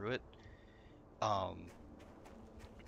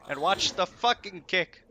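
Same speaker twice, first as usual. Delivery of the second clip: loud, high and slow; mock angry command; 9 semitones higher, 7 dB louder, slower than usual. Raid leader warning the group, loud slowed mock anger. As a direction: spit out each word like a pissed-off raid leader. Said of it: "then he goes".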